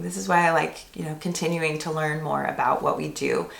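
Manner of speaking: hoarse, worn-out voice; losing voice. Real, not acted. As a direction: voice giving out, hoarse. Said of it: "I'm clearly losing my voice".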